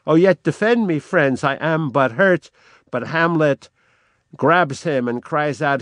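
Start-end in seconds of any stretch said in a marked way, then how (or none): 0.1-2.5 desperate cry. Acted. The wounded king begging his friends, desperate cry. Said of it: "the king cries out desperately".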